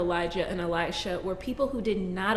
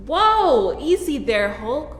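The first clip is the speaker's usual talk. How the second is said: surprised whoa; 4 semitones higher, 7 dB louder, slower than usual. Acted. Carl snaps at her.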